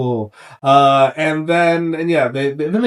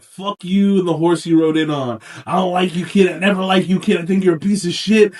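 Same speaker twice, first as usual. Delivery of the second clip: mildly heated rant, rising higher and louder; mock defiance; 4 semitones higher, 4 dB louder than usual. Blacksmith defying Theon, mock-angry and building. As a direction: build an indignant acted tirade.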